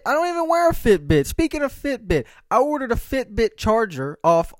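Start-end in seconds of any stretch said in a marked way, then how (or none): 0.1-1.3 much higher, louder disbelief; incredulous. Real, not acted. Baffled that a Fitbit went off, high incredulous. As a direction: say it like you can't believe it. A Fitbit interrupts his speech.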